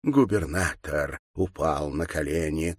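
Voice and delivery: ordinary delivery, nothing marked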